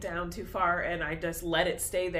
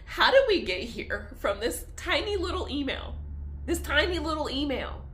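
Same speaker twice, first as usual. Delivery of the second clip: laughing disbelief; 5 semitones higher than usual. Real, not acted.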